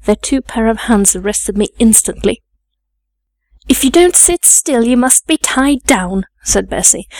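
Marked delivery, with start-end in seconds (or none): 3.7-6.2 higher-pitched warning from a maid; scolding threat. Acted. Bessie warns the struggling child to sit still, scolding. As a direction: warn her, starting high and coming down.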